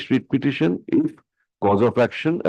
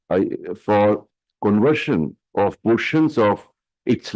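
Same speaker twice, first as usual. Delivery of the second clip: dictating. Real, not acted. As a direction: dictate each phrase for the stenographer. Dictates the court order.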